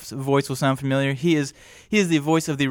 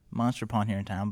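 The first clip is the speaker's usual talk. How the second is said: softer repeat of Monster Pond here in town; quieter aside; 4 semitones lower, 6 dB quieter than usual. Shown as a demonstration. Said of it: "repeats the shop name quieter".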